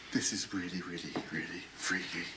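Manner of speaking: tense unvoiced whisper. Real, not acted. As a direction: whisper so nobody hears. Whispering in creepy house.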